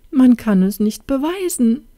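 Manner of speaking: high, loud lament; tearful cry. A narrator's reading. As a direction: wail it as an acted tearful princess. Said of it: "rief sie unter Tränen". (weinerlich und laut geklagt)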